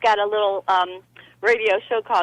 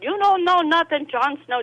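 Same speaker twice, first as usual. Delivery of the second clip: mock British TV-drama accent, starting higher; Jon Snow; 5 semitones higher than usual. Likening the guest to a show, mock accent. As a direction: quote the line in an imitated accent. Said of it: "Sometimes he does that".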